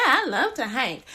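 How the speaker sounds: mock-eager, lying through it; fake enthusiasm. Hiking-hater lying to her date about loving hikes, mock eager. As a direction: pretend to love hiking.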